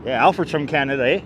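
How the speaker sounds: playful Canadian "there, eh" lilt; lightly put-on Canadian accent; mock Canadian accent. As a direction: ham up the Canadian accent a little.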